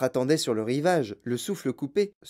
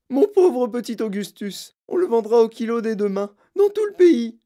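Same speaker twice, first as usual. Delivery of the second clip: lamentation; 7 semitones higher, 6 dB louder than usual. Acted. Mère se lamente.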